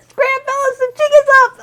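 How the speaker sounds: high, loud little crook bug shouting; a tiny hoodlum yelling at his crew to run; gangster bug. Acted. Bug boss warns his gang as the seat lifts, high and shouting. Bugs scatter from toilet bulge.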